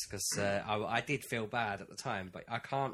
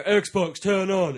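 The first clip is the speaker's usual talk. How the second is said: raised, louder "Xbox, turn on"; loud command; 8 semitones higher, 12 dB louder, much slower than usual. Retold or imitated. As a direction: shout it at the machine. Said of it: "And then you go".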